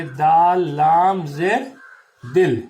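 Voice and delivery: a teacher building the word from its letters; letters at a dictation pace, then the whole word; slow spelling demo. Shown as a demonstration. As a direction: spell out دال لام زیر slowly and firmly, then say دل. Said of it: "زیر جو ہے تلفظ پیدا کرتی ہے".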